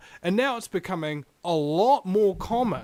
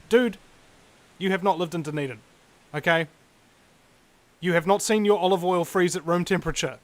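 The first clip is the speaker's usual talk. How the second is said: exasperated rant; 2 semitones higher, 5 dB louder than usual. Real, not acted. Host ranting against cold claims.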